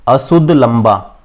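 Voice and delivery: slow, deliberate teacher answer. Shown as a demonstration. Teacher answering his own question slowly for the class. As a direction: lay out अशुद्ध लंबा word by word. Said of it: "क्या लिखेंगे?".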